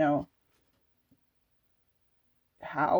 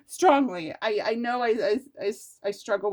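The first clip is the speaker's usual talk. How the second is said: laughing; 5 semitones higher, 6 dB louder than usual. Real, not acted. Laughing at own stumble.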